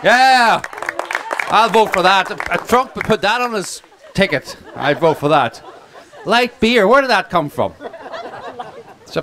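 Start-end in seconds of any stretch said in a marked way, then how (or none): 0.0-7.7 high and loud, laughing through the words; cracking up at his own joke, pitched high. Real, not acted. Joking to the crowd about banning light beer, laughing loudly.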